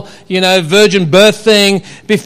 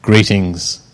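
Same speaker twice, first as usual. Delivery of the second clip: very low, solemn greeting; deep angel voice; 12 semitones lower, 4 dB quieter than usual. Shown as a demonstration. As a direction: boom it out like an angel. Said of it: "Who can do a deeper voice?".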